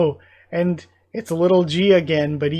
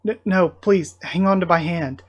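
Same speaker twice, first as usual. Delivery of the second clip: raised, stammered begging; desperate plea; 2 semitones higher, 5 dB louder than usual. Acted. Friend begging Chloe to hang on to a hand, desperate plea. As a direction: plead as if they are slipping away.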